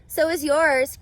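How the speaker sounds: Avery's loud, teasing comeback; cried out. Acted. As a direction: shout back at your sister. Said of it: "cried Avery".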